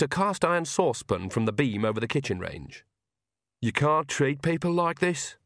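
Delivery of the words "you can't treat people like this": slow, sulky protest; a sullen complaint under her breath. A narrator's reading. Agnes sulks at Nanny, slow and sullen. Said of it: "said Agnes sullenly".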